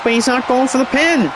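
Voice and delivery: rising excited shout. Real, not acted. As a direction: urge it on like a fan at ringside. Excited wrestling commentary call.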